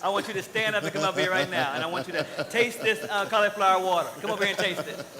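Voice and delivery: loud playful call to the crowd; yelling across the room. Real, not acted. Calls audience member up front.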